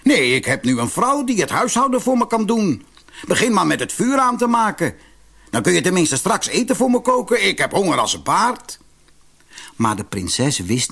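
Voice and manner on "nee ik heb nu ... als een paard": higher, taunting and scornful; a hint of a scornful husband; mocking. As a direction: sneer at her helplessness. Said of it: "lachte de speelman spottend".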